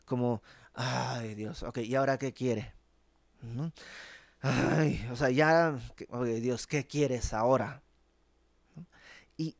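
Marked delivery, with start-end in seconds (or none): 0.7-7.8 sarcastic mockery. The people mocking God's demands, in light sarcasm. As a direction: roll the eyes at God, lightly mocking. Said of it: "sarcásticos, con sorna, con burla".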